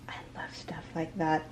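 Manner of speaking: quick, confiding whisper. Real, not acted. To her viewers about the charm, in a quick whisper. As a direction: murmur it like a secret. Admiring a good luck charm.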